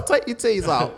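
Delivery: high-pitched hammed-up British request; cheeky fake Brit, loud and high; mock British accent. Playing a Brit abroad for laughs, high mock British. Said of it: "I'm a Brit".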